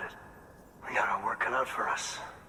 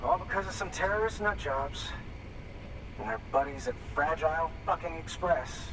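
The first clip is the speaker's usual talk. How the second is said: bitter rant; 5 semitones higher than usual. Acted. Junk dealer venting at porter.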